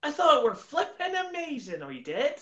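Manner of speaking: high-pitched West Country greeting; Bristolian accent. Shown as a demonstration. Answering the host's request for Bristolian, high hammed-up Bristol accent. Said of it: "How about Bristolian?".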